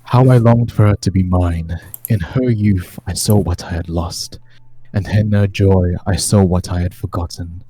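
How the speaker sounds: measured, solemn gothic narration; dramatic diary reading. Acted. Game master reading Strahd's tome to the players, dramatic solemn narration. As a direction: read it as an ancient lord recording his tale of woe.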